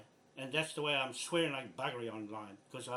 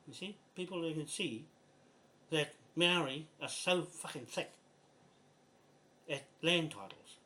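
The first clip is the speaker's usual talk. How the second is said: annoyed rant. Real, not acted. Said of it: "That's how annoyed I am".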